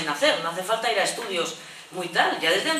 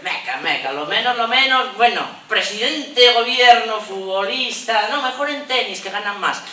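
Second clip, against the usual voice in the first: mock proud boast; 5 dB louder than usual. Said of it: "Cambia el tono".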